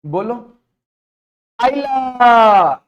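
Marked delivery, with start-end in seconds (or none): 1.6-2.8 drawn-out surprised aila. Real, not acted. Drawn-out exclamation.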